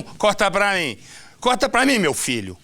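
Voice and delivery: sudden high, quick studio command; high-pitched, hurried on-air order; calling to the crew. Real, not acted. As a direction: break off and call out to the camera operator. Host interrupts himself, calling to crew.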